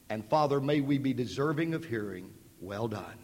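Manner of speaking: preacher closing the service in prayer. Acted.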